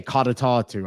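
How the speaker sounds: "Codatatu" said as KOD-a-TAH-too; "Codatatu" with a falling tune, Irish style; Irish pronunciation. Shown as a demonstration. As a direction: sound out "Codatatu" like a native speaker from the south. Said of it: "we would say".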